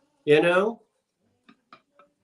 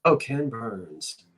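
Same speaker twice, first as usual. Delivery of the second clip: Ken Burns; 4 semitones lower, slower than usual. Retold or imitated. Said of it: "I was thinking Ken Burns".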